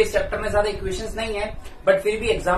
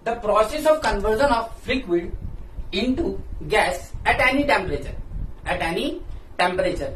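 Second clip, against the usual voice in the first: slow, word by word, so students can write it down; slow dictation; much slower than usual. Shown as a demonstration. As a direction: dictate each word clearly for notes. Dictating a definition slowly.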